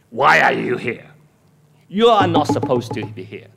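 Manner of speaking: acted scolding, starting with a loud burst; stern rebuke. Preacher playing God confronting Elijah, stern rebuke. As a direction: rebuke him with firm, leaning emphasis. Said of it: "I will rebuke him".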